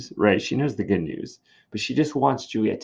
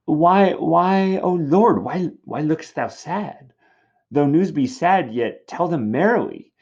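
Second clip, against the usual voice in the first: higher, pleading, insistent; anxious Juliet; 5 semitones higher, 4 dB louder than usual. Acted. Juliet questioning the sad-faced nurse, anxious. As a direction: press her for the news. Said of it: "Juliet is just anxious for her news".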